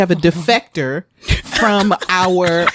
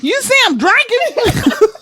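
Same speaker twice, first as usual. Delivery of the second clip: high slow sassy question; slower than usual. Retold or imitated. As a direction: drag it out with attitude. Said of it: "I looked at you like".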